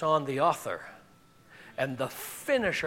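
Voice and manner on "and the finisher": hushed emphasis. Real, not acted. Quiet emphasis in sermon.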